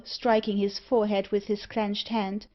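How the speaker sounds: ordinary delivery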